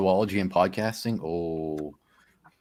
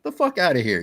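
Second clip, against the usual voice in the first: higher-pitched mock Australian dismissal; Australian accent; 7 semitones higher, 3 dB louder than usual. Imitating a friend's reaction to hoax talk, Australian accent. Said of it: "in that little accent of his".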